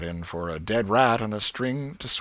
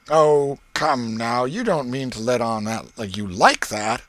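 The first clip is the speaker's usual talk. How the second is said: put-on lightly raised, eager boy voice; boy Ben coaxing; 3 semitones higher, 7 dB louder than usual. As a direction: coax him like a curious kid.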